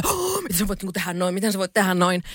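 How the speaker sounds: gasped, mock-scandalised reaction; lightly acted shock after a gasp; mock shocked outrage. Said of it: "silloin se oli silleen, kaikki oli".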